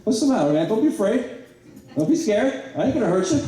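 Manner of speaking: high mocking teammate voice, far above his own; mock a scared quarterback, high and teasing; Ricky taunting. Teammate Ricky teasing the quarterback he just flattened, high and mocking. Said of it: "and he goes".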